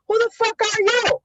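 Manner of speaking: imitating dad snapping at strangers at the door; angry father. Father confronting the feds.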